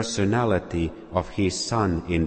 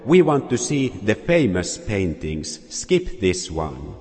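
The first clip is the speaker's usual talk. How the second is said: mild shout. Acted. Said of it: "a voice in the back of the room shouted".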